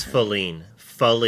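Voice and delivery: Feline as "fuh-LEEN"; correct name demo. Shown as a demonstration. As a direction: say Feline with a short first syllable and long stressed "ee". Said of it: "is how you say that".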